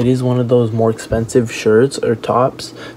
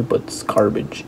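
whispered; 5 dB quieter than usual. Real, not acted. Blunt verdict tossed off aside.

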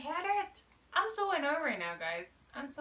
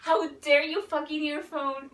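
angry outburst; 4 semitones higher, 8 dB louder, slower than usual. Real, not acted. Earphone dies at key moment.

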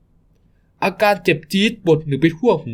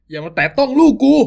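much higher, desperate cry to keep the hands off; protective shout; 9 semitones higher than usual. Acted. Father shouting at the thug to protect his son, high desperate. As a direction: shield your son with your voice.

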